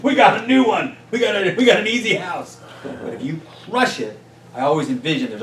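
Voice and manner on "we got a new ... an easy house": high, loud little bug sneering; cartoon bug voice. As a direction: play the bug mocking a wimpy homeowner. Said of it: "tell all his friends".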